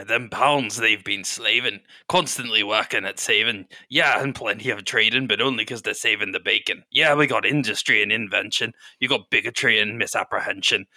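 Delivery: lightly voiced dwarf battle poet. Dwarven woman spits poems back at Gun, lightly put-on dwarf voice. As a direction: chant steady rhymes with a hint of dwarf. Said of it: "I gotta do a dwarf voice".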